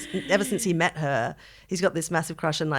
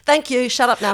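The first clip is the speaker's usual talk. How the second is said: mock dismissive; 6 semitones higher, 8 dB louder than usual. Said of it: "just like".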